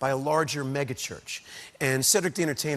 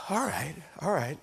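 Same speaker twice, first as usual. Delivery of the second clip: whispered giving in. Retold or imitated. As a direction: whisper the reluctant agreement. Retelling giving in.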